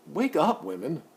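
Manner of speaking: loud, high-pitched wake-up call; exhorting call. Real, not acted. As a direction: call out sharply to rouse the listeners. Exhorting women in his rant.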